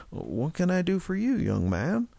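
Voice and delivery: courteous, customer-friendly tone; polite shopkeeper voice. A narrator's reading. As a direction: greet him like a potential customer. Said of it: "he said in a poli-, polite voice he used".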